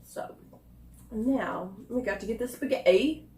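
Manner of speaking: put-on slightly slow, light English accent; a hint of put-on English accent. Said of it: "I went to an English accent".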